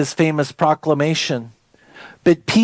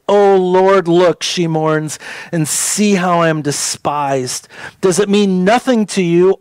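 scripture reading. Acted. Pastor reading Lamentations aloud to the congregation, solemn. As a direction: read the lament with weight.

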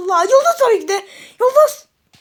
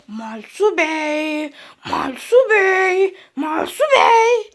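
slow, drawn-out calling of his name; distant calling voice; 4 semitones lower, much slower than usual. Acted. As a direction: call him slowly from far away. Voice calling him from above.

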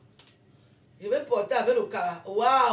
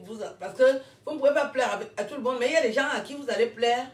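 rire rapide; 4 dB louder, faster than usual. Real, not acted. Encourage en riant.

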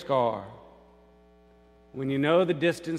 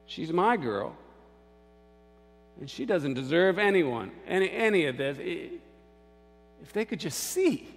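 louder, higher, imitated angry hurt; upset mother; 4 semitones higher, 5 dB louder than usual. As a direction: act out a mother aggrieved for her daughter. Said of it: "I remember the woman who was crying".

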